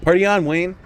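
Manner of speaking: loud, high party-dude cheer; movie catchphrase impression. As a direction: call it out high like a hyped movie slacker. Quoting Wayne's World catchphrase exchange.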